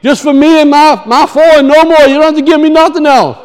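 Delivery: a small, timid prayer voice; mock meek prayer. Preacher mocking a timid prayer, in a meek pleading voice. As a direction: pray small, asking only for a little. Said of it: "This is not my prayer life".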